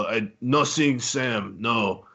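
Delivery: halting, lightly mocked Russian accent; puzzled Russian boss with little English; broken English with a hint of Russian; imitated Russian accent. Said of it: "equally Russian, like, speaks only Russian".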